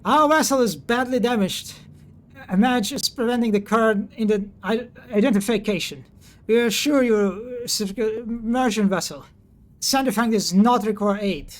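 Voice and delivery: a hint of youthful pitch in the voice. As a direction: speak up like a young crew member on the radio. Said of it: "Youthful voice cuts through the static".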